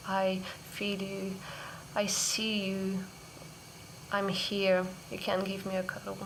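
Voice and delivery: soft, tender comfort; loving inner mother. Retold or imitated. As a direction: gently invite a cuddle. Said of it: "And she would tell me".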